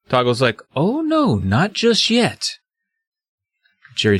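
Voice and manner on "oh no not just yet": high start, drawn-out menacing refusal; sly villain. Acted. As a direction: play a villain slowly blocking the exit. Toggle stops Jerry leaving.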